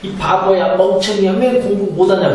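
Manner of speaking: mildly hammed-up parental telling-off; acted angry scolding. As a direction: play an exasperated parent berating a child. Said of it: "화가 나서".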